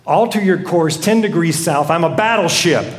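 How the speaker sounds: firm captain's order, mildly angry; ticked-off captain. Acted. Ticked captain signalling the other vessel, firm and irritated. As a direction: pull rank with controlled irritation. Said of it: "now he's really ticked".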